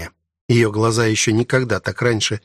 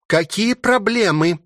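slow, higher-pitched irritated growl; growled challenge; 10 semitones higher, slower than usual. A narrator's reading. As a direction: growl the question slowly, menacingly. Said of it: "прорычала она".

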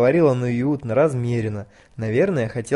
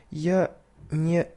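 slow, squealing sob-like words; hysterical squeal; 3 semitones higher, 3 dB quieter, much slower than usual. A narrator's reading. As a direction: squeal on the verge of panic. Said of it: "с истерическим подвизгиванием". (истерическое подвизгивание)

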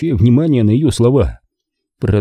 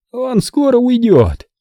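с надеждой; 13 semitones higher, slower than usual. A narrator's reading. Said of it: "спросила Мальди с надеждой".

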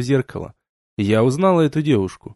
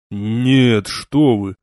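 mild exclamation; 3 semitones lower, much slower than usual. Acted. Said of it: "воскликнул он".

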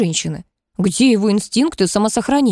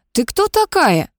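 higher, sharp and suspicious; sharp question; 8 semitones higher than usual. A narrator's reading. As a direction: cut in coldly with the question. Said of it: "спросил резко".

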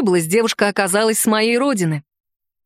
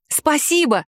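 a bright, high thank-you; joyful exclamation; 5 semitones higher, slower than usual. Acted. Daughter thanking her mother, higher and eager. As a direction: burst out grateful. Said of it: "воскликнула я".

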